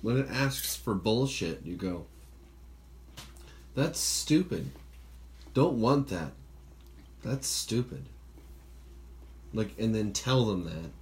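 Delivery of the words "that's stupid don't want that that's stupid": mock dismissive parent. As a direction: brush the kid off firmly. Parent refusing child's bullshit requests.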